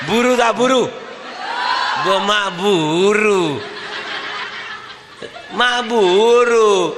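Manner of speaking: laughing mock. Acted exchange while laughing.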